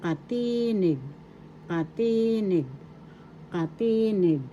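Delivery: teacher modelling katinig as ka-TEE-nig, repeated with pauses; stress on second syllable. Shown as a demonstration. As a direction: stretch and lift the TI in katinig. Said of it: "The accent is in the second syllable".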